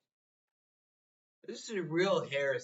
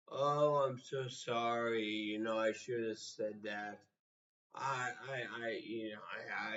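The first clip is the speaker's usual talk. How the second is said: 2 mock apology; 5 semitones lower, 4 dB quieter than usual. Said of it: "Should I apologize".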